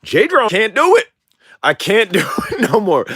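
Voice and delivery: high-pitched, cracking up mid-sentence; laughing. Real, not acted. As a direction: give up on the voice through real laughter. Cracks up retrying his old voice.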